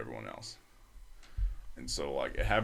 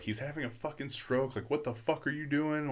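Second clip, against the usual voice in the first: imitating angry nurse; 8 semitones higher than usual. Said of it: "starts fucking cussing everyone out".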